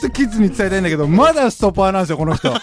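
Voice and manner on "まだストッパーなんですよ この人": fast, giggling through the words; holding back a laugh while talking; stifled giggles. Real, not acted. Laughing while teasing the friend.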